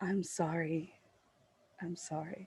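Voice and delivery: very quiet, barely there, hushed half-whisper. A character walks away from one person and over to another; half-whispering. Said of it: "just like whisper".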